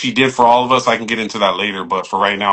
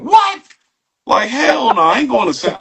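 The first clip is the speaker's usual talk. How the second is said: shocked; 11 semitones higher than usual. Retold or imitated. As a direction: blurt it out in disbelief. Shocked at going to San Francisco.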